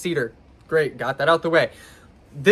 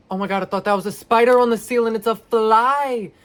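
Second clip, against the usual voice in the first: startled; 5 semitones higher than usual. Real, not acted. Spotting a spider on ceiling.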